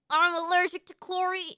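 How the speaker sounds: retry the British-like accent; British-sounding accent attempt. Shown as a demonstration. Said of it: "But it's still British".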